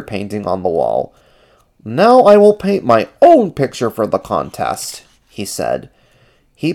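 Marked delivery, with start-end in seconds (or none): 1.9-5.0 lightly voiced, higher character; a hint of high puppet voice; Ernie's voice. A narrator's reading. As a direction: declare it with resolve, pitched up. Ernie resolves to paint.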